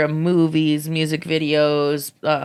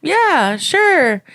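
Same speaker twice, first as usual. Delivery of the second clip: eager yes; 10 semitones higher, 4 dB louder than usual. Retold or imitated. Replying eagerly in story.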